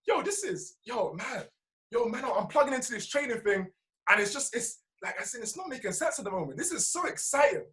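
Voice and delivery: mildly hyped, high-pitched self-talk; excited self-talk. Shown as a demonstration. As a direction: marvel to yourself at how exciting it is. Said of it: "anytime you feel that something".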